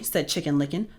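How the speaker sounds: plain reading voice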